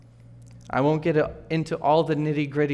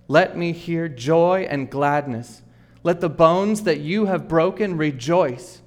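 scripture reading. Acted. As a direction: read the psalm with rising fervour. Reads Psalm aloud, rising.

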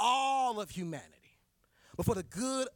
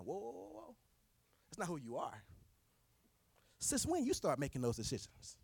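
much softer whoa, almost under breath; gentle correction; 2 semitones lower, 5 dB quieter than usual. Real, not acted. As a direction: hush them down gently. Correcting listener.

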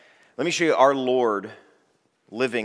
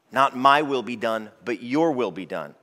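humble prayer. Shown as a demonstration. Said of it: "we are to speak like this".

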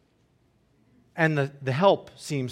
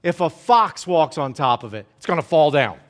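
scoffing jab. Retold or imitated. Tobiah mocks the wall builders, a touch of scorn. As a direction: belittle the wall with a sneer. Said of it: "Tobiah follows up with".

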